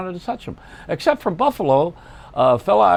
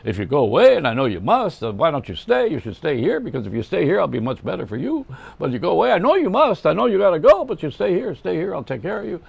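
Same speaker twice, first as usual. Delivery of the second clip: singing a song lyric as a pleading comic, climbing higher; Jackie Mason; 3 semitones higher than usual. Retold or imitated. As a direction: coax them to stay, rising into a higher, pushier plea. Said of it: "I imitate Jackie Mason doing that".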